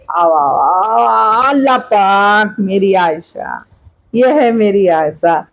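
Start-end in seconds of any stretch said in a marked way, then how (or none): 0.1-3.6 slow, drawn-out coo. Real, not acted. Grandmother calling baby Aisha over, slow coo.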